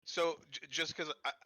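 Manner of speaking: cutting out on a bad headset; choppy, breaking-up call audio; bluetooth dropout. Real, not acted. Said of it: "I'm having a hard time hearing you".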